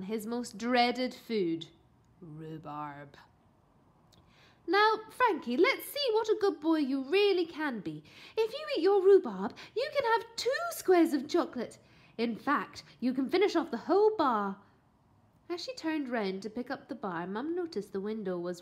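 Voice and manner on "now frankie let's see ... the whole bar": high, loud persuading mother; coaxing mum. A narrator's reading. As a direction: bribe the boy sweetly. Mother coaxing her son.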